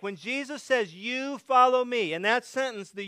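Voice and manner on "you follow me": YOU follow me, with YOU pitched high; emphatic. Retold or imitated. Jesus commanding Peter to follow, emphatic. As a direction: lean hard on You in a high voice. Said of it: "This is emphatic".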